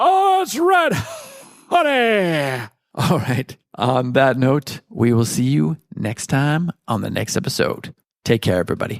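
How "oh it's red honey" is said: put-on crazy voice, very high, slow, wildly swooping. Closing the episode with a little crazy Nicolas Cage voice from Raising Arizona. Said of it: "a little crazy Nick Cage voice from Raising Arizona".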